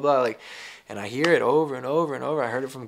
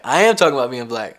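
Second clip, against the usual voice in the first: louder defiant insistence, leaning on "am"; 7 dB louder than usual. Shown as a demonstration. Repeated with rising force.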